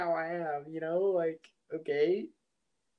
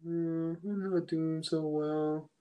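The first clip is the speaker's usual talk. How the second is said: mopey; 3 dB quieter than usual. Pretend. Mopey customer at Chick-fil-A, hammed-up sad. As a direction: play it glum to get free food. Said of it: "just walk into Chick-fil-A all mopey".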